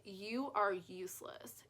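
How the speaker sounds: slow whispered put-down; whispered insult. Shown as a demonstration. A critic whispering cruelty across the table, slow whisper. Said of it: "they were sitting across the table from you and they said".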